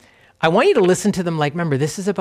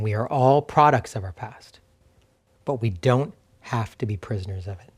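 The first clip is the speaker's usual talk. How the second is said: lower, deliberate restatement with a pause in the middle; slower, weighted repeat; 4 semitones lower, 3 dB quieter than usual. Real, not acted. Pastor saying a truth again for listeners, slow and deliberate. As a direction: say it slowly and let "don't" sink in, softening at the end. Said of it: "Let me say that again".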